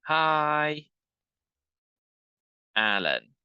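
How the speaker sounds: bright, loud hi; excited hello to a friend; excited greeting. Shown as a demonstration. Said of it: "'cause we're excited".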